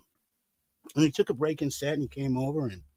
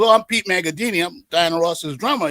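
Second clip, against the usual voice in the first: Pete Magadini, proud and happy; 2 semitones higher, 5 dB louder than usual. Retold or imitated. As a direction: introduce yourself with happy pride. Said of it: "he's proud and happy to be there".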